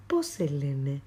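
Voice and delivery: Poselene whispered, unvoiced and low; whispered echo. Shown as a demonstration. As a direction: whisper Poselene as if it came from a pupil. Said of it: "Hagamos de cuenta que los estoy escuchando". (Poselene susurrado)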